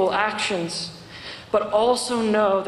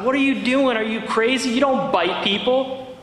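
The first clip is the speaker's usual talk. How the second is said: mock yell; 3 semitones higher than usual. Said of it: "She could have yelled at the child".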